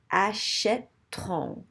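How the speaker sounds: slow "achèteront", split at the accented E; broken into syllables. Shown as a demonstration. Teacher showing where the break falls, slowly syllable by syllable. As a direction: say "achèteront" in slow separate beats, open È, silent E before R. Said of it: "have to have a break somewhere".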